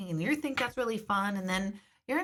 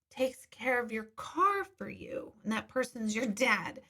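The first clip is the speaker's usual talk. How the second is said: retold amazement, higher and slowed, dropping to a hush on the car part; stunned disbelief; 3 semitones higher, slower than usual. She recalls hearing a dad fix his daughter's car, stunned and disbelieving. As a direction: relive the moment it made no sense to her. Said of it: "I literally was like".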